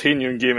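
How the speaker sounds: Hin Yun Gim said in Cantonese tones, hin stressed; Cantonese pronunciation. Shown as a demonstration. Cantonese speaker correcting friends, says Hin Yun Gim in Cantonese. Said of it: "in Cantonese".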